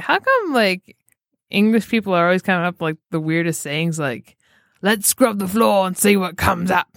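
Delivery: a hint of a puzzled drunk man; mild mock bafflement; Simon Beasley voice. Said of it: "doing the Simon Beasley voice".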